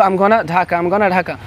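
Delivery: "gonna" blended as one word; casual gonna demo; reduced gonna. Shown as a demonstration. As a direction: say "I'm gonna Dhaka" with gonna run together. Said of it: "আমরা কি বলবো?".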